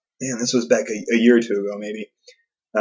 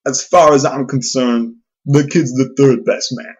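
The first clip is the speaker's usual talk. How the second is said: worked up; 4 semitones higher, 5 dB louder than usual. Acted. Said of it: "as you get worked up".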